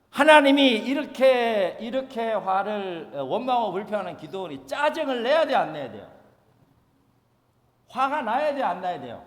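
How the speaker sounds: hushed questions. Real, not acted.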